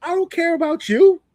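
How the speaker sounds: hammed-up Oba Femi taunt; imitating Oba's threat. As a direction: throw it in his face, laughing at him. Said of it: "looks at him dead in the face and goes".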